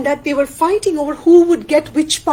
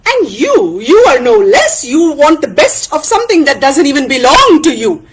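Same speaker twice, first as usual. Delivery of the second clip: quick, forceful quarrel voice; indignant friend arguing; Tana, accusing; 4 dB louder than usual. Acted. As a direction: throw the accusation back.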